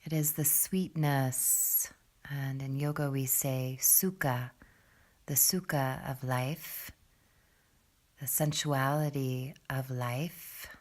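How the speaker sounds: guided meditation. Acted. Yoga teacher leading students into breath below the belly, guided meditation. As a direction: ease them unhurriedly into the breath, pitched low.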